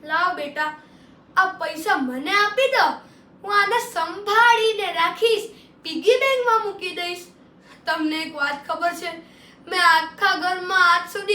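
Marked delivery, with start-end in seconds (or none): 0.0-7.3 mock-sweet coaxing mother, a bit louder; sweet-talking mom. Mother coaxing her son to hand over the cash. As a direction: coax the money out of the kid's hand. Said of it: "ખબર mummy શું કહેત?".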